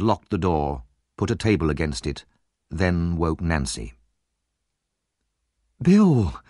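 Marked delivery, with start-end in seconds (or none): 5.8-6.4 pleased. A narrator's reading. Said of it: "pleased to see him".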